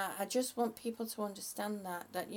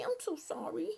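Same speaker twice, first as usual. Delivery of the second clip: whispered apology; 5 semitones higher than usual. Real, not acted. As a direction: breathe the apology, sheepish. Apologising for missing a viewer.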